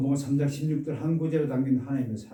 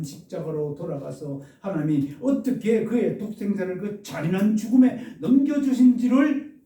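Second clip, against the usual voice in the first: impassioned appeal, climbing higher and louder; building to an outcry; 5 semitones higher, 5 dB louder than usual. Acted. Preacher voices the author appealing to doubting readers, building to an outcry. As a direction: plead with rising force towards a cry. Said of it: "소리치고 있습니다".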